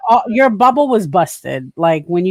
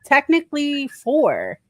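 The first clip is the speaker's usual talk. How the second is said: mock whine; 6 semitones higher, slower than usual. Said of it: "He's like".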